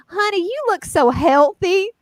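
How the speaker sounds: sweetly drawn-out backhanded compliment; old Southern lady. Acted. Old Southern woman greeting someone she thinks is fat, mock-sweet. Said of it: "old Southern woman with pearls on comes up and says".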